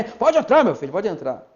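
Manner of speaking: a hint of a lazy pastor, sprawled back and careless; half-hearted welcome from a lounging pastor; lightly mocking a slouched pastor at his desk. Shown as a demonstration. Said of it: "Não pode ser assim".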